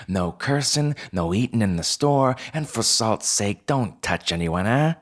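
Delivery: high-pitched bossy fox manager; Pell. Acted. Fox co-manager laying down store rules to newcomer, bossy. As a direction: rattle off house rules as a brisk little boss.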